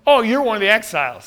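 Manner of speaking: quick, superior dismissal; mock welcome, talking down to him; acted haughty put-down; condescending. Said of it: "trying to position himself or posture".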